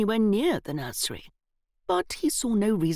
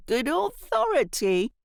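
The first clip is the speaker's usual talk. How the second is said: a laugh, then a slow, higher mocking echo; guffawing; 5 semitones higher than usual. A narrator's reading. Boy mocking Evelyn's source, guffawing. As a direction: guffaw and throw the words back. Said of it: "the boy guffawed".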